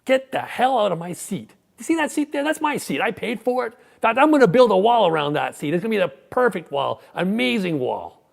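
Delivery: high, loud blustering Trump impression; Donald Trump. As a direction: bark it out, boastful and aggressive. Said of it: "He might have said something like".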